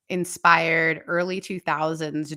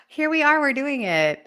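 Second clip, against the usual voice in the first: excited; 9 semitones higher, 4 dB louder than usual. Real, not acted. Excited show opening.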